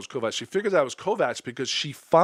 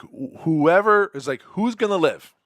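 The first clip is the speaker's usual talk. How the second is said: a mock menacing threat; lightly acted threat, rising to a loud last line; retelling a villain's threat with mild menace; threatening; 4 dB louder than usual. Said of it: "this guy's threatening pretty good".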